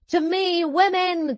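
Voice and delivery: high-pitched call to arms; rallying cry. A narrator's reading. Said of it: "cried Madame".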